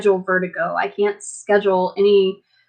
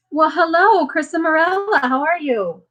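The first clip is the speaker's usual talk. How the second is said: surprised greeting; 8 semitones higher than usual. Real, not acted. Greets someone who just arrived.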